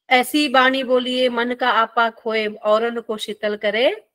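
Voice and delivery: slow, measured verse recitation; slow teacherly recital of a verse; couplet recitation. Acted. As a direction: recite the doha slowly, phrase by phrase.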